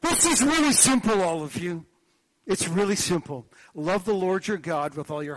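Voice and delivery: high, loud mock preacher proclaiming; imitating a preacher. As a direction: play the Reverend laying it down to the table. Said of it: "enter the Reverend Kathy Pegg".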